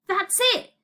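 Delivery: high cry of sudden inspiration; excited cry. A narrator's reading. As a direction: exclaim as the idea strikes. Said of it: "cried Elliot".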